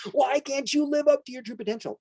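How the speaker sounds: high, loud, half-laughing parental plea; mock strangling exasperation. Parent urging a kid toward their potential, mock exasperated cry. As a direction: plead in hammed-up frustration. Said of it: "you're like strangling".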